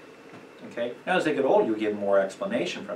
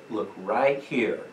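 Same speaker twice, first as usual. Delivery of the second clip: slow firm command; 2 semitones lower, slower than usual. Shown as a demonstration. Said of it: "Use a command voice".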